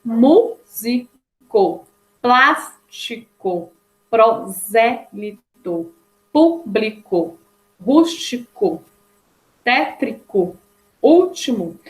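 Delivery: slow list, "Músico" broken up with a strong "Mú"; measured teaching diction, "prosélito" leaning on "sé"; stressed antepenultimate syllable. Shown as a demonstration. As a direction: punch the accented syllable in "plástico", "público", "rústico". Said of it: "sendo a mais forte na hora da pronúncia".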